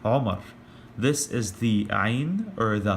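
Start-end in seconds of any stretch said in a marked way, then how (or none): 0.0-0.4 Omar with a throaty Ain, short O; Arabic Omar. Shown as a demonstration. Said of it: "is actually pronounced Omar".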